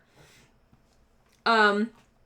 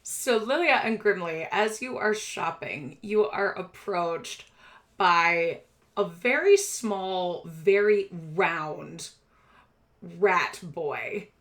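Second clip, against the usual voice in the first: game master narration; slower than usual. A narrator's reading. Game master introduces a new character.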